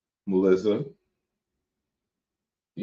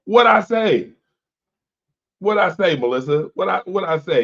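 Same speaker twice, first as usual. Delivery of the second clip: mock surprise; 10 semitones higher, 4 dB louder than usual. Real, not acted. Mock-innocent protest to co-hosts.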